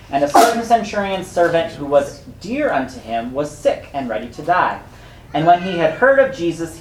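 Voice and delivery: steady reading of the Bible passage; scripture reading. Acted. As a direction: read the passage to the congregation.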